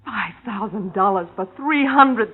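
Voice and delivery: shouting through bitter laughter and tears; hysterical laugh-cry. Acted. Girlfriend cracking up over her cheap cut, hysterical. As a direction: come apart, half laughing, half sobbing.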